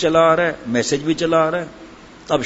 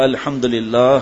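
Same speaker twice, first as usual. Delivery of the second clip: excited; 4 semitones lower, much slower than usual. Retold or imitated. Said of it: "اہلیہ نے بہت جوش سے کہا".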